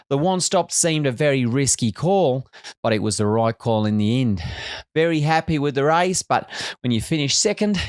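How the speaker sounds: put-on a mild, half-hearted Australian accent; a weak attempt at an Australian accent. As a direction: lightly put on Australian twang, quoting the driver. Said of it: "I'm gonna do my best Australian accent here".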